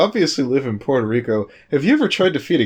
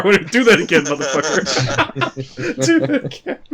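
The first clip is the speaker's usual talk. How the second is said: menacing voice; 6 semitones higher, slower than usual. Pretend. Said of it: "as Ninja's hand just slowly reaches".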